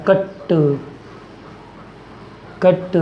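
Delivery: कट said as one separate beat; stressed example word. Shown as a demonstration. Teacher showing a one-syllable example, stressed word. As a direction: say कट on its own, set apart by pauses. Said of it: "जिस शब्द पर ज़्यादा जोर दिया जाता है".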